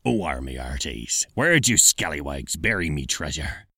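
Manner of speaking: low growly pirate; hammy pirate, arr. Shown as a demonstration. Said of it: "a pirate".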